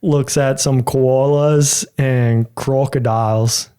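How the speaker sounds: American doing Australian, laughing, slow; laughing through a slow Aussie accent. Shown as a demonstration. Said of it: "say in an Australian accent".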